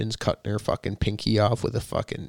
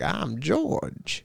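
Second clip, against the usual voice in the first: slightly raised demon introduction; George; 5 semitones higher than usual. Retold or imitated. Demon introducing himself, imitated with a hint of British accent. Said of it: "when he introduced himself, he's like".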